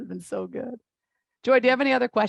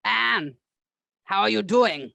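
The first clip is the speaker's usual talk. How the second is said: a hint of a stern German doctor; German therapist accent. Host as her German therapist greeting a patient, light German accent. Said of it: "she really was German, so I'm not doing anything wrong with the accent".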